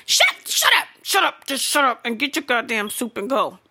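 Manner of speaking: exasperated outburst. Pretend. Fed-up customer to soup-line couple, exasperated outburst. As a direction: cut them off in comic exasperation.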